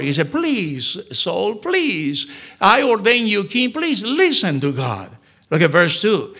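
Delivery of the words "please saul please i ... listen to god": pleading. Retold or imitated. Samuel pleading with Saul, acted.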